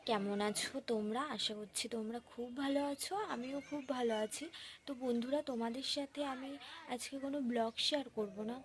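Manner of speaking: talking around a swollen lip. Real, not acted. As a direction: speak as if the lip is puffed up. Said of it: "একটু কথা বলতে পারছি না".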